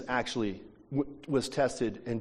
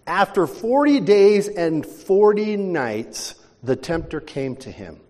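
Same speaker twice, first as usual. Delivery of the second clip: slow, louder solemn reading of "forty"; scripture read; 4 semitones higher, 5 dB louder, slower than usual. Acted. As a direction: read the verse with weight. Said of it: "Verse two".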